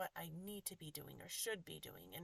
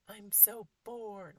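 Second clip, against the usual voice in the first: put-on slow, louder whiny bored child voice, stretched out; bored kid; 6 dB louder, much slower than usual. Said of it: "this is the one that always is like".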